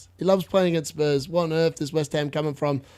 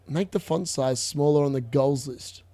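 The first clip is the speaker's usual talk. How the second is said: softer, lower, puzzled rereading of "Make the font size smaller"; 4 semitones lower, 5 dB quieter than usual. Shown as a demonstration. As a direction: mumble it back, trying to make sense of it. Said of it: "What does that mean?".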